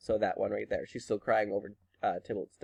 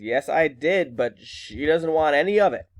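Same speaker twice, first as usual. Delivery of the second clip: exasperated mother; 3 semitones higher, 4 dB louder than usual. Retold or imitated. Mother reporting the refusal, exasperated.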